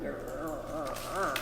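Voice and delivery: mild growl. Acted. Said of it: "The girls growled".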